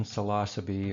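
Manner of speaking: psilocybe as suh-LAH-suh-bee; proper Latin pronunciation. Shown as a demonstration. Lecturer giving the proper Latin, psilocybe as suh-LAH-suh-bee. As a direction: say psilocybe with a short first vowel, stress on LAH. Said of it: "the proper Latin".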